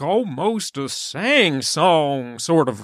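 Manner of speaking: slow, drawn-out sing-song delivery; slow lilting demonstration; mock sing-song. Shown as a demonstration. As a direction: stretch each word into a lilt. Describing sing-song speech while drawling it out.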